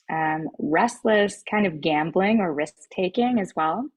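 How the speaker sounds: talking with a mouthful of grapes; chewing grapes between words; eating grapes. Real, not acted. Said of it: "Sorry, I'm eating grapes".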